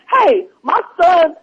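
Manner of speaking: slow, drawn-out mock-solemn "hey, my son"; lightly voiced earnest man, slowed right down; his solemn tone. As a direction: stretch it out like a grave stranger lecturing you. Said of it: "if y'all could have heard his tone".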